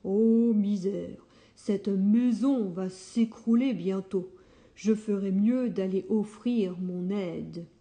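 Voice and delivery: a lightly voiced fretting wolf; dismayed kind wolf. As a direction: lament the ruined heap. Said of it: "il s'écrie".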